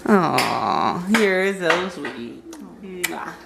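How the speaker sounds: soft, slow, low and tender; cooing. Real, not acted. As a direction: thank him sweetly. Cooing thanks, then kiss.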